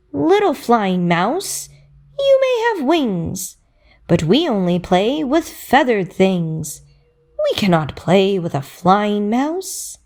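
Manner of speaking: a lightly sung bird's taunt; singsong bird voice. Acted. A bird refuses to play with the mouse, singsong. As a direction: chirp it like a sweet little bird. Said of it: "one bird sang".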